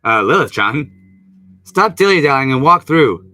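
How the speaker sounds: mild scolding voice. Acted. Voicing Vegapunk to Lilith.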